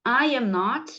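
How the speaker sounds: I AM NOT said word by word, drawn out; model pronunciation. Shown as a demonstration. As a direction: model "I am not" slowly for repeating. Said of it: "Então, vamos lá". (pronúncia modelo, pausada)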